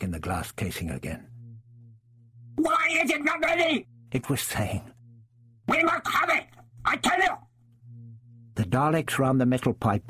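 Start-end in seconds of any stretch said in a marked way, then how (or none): 2.6-3.9 very high alien demand; impatient Dalek. A narrator's reading. The glass Dalek demanding its weapon from the others, very high. 5.7-7.4 very high alien demand; impatient Dalek. A narrator's reading. The glass Dalek demanding its weapon from the others, very high.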